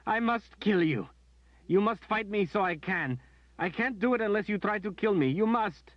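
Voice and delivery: high, loud, tearful scream; anguished high scream. A narrator's reading. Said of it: "she screamed".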